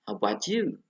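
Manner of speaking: "How about you" lifted at the end; intonation drill. Shown as a demonstration. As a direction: let "you" go up. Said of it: "ada pronunciation and intonation".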